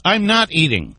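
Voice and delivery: chewing while talking; mouth full. Real, not acted. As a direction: talk through a mouthful of food. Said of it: "I can hear you chewing".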